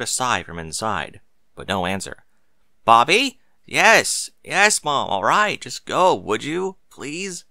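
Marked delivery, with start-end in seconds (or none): 2.8-3.4 high sharp call, louder this time. Acted. Mother calling again. 3.7-7.4 put-on irritated, raised teenage reply; annoyed teen.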